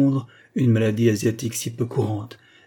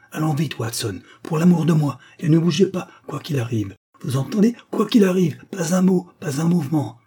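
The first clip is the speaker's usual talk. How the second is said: urgent command; 6 semitones higher than usual. Acted. Holmes urgently orders Watson to hide.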